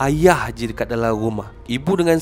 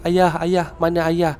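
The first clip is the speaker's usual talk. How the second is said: retold panicked calling; 4 semitones higher than usual. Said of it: "Semua macam panik".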